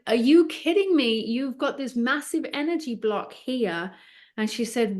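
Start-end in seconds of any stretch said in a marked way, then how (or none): 0.1-3.9 astonished. Retold or imitated. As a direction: burst out in amazement. Her astonished reaction.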